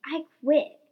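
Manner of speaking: big defiant bellow. A narrator's reading. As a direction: bellow it out in protest. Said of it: "heard her bellow".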